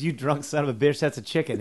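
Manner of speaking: mildly indignant retort in a joke; scolding wife. Acted. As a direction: tell off a drunk husband, lightly acted. Wife scolds drunk husband in joke.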